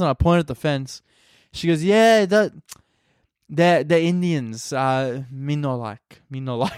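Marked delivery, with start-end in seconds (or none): 1.8-6.7 imitating an Italian nonna, halting broken English; disapproving nonna with a rough Italian accent. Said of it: "Italian accent".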